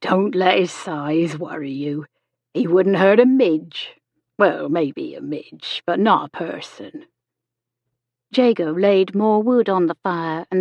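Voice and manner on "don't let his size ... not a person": kindly nurse's character voice, unhurried; Miss Chegwin, friendly reassurance. A narrator's reading. Nurse reassures patient about her big son, friendly. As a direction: reassure him with gentle humour.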